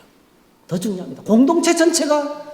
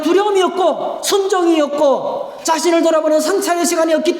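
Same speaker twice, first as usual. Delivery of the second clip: fiery preaching; 6 semitones higher than usual. Acted. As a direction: press the point home fiercely.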